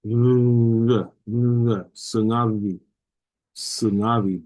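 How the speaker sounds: sungavi with lips barely touching; soft b. Shown as a demonstration. Teacher repeats the soft b in Sungavi. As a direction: air passing through the lips in Sungavi. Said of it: "go through your lips".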